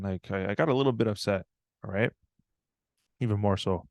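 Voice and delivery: ordinary talk, nothing marked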